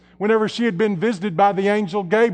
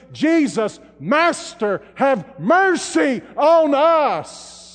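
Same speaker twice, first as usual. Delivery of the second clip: calling out; 4 semitones higher, much slower than usual. Acted. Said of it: "lifting up their voices and saying".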